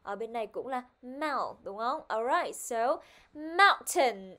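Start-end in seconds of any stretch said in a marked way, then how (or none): 3.3-4.3 "mountain" drawn out, loud on the first syllable; stress on first syllable. Shown as a demonstration. Teacher modelling word stress for the class, stressed "mountain". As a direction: punch the start of "mountain" slowly. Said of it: "Ở trên âm tiết là mount".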